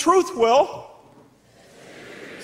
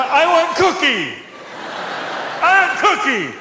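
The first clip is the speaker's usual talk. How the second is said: put-on little boys begging for cookie; 4 semitones higher than usual. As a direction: beg like a dazed child. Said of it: "and they're going".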